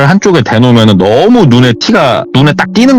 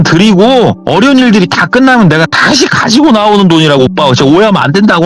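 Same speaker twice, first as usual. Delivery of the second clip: acted earnest whining insistence; insistent pleading; 7 semitones higher than usual. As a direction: plead with a disbelieving older brother. Sister desperately defends cult to brother.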